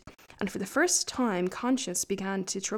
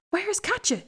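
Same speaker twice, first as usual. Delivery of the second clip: high, startled question; the devil stunned to see the shepherd back alone; gasped question; 9 semitones higher than usual. Acted. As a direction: blurt it out in amazement. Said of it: "he gasped".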